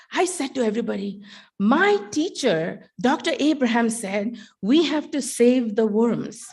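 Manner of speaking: a hint of a proud student quoting teacher; student's voice. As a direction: play the earnest student telling everyone, with a laugh at the end. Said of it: "I'm speaking in my student's voice".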